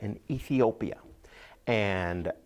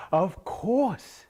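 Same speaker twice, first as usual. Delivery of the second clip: high, loud echoed "of course"; eager silly farmer's high voice; Saeed echoing; 10 semitones higher, 5 dB louder than usual. Acted. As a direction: parrot her, much higher and louder. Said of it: "And Saeed said".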